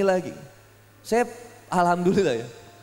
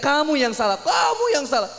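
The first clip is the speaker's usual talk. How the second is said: higher-pitched imitation of quarrelling spouses; mock angry yell; 5 semitones higher than usual. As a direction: throw the blame in a mock shout. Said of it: "Makanya teriak". (teriakan pura-pura suami istri bertengkar)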